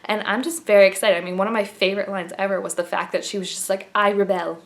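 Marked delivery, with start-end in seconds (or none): 3.9-4.6 imitating a bad British accent on I rebel; a clumsy British accent on I rebel; terrible British accent. Fan quoting the trailer line in a bad British accent. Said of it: "that was a terrible British accent".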